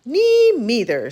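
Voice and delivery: slow, small mouse voice; a tiny mouse piping in. Acted. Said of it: "said a tiny voice".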